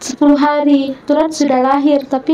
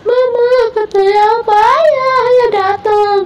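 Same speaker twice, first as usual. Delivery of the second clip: put-on much higher, excited child voice; voicing her son Samuel; 8 semitones higher than usual. Mother retelling her son Samuel announcing father came, high and excited. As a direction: squeak it out like an excited little boy.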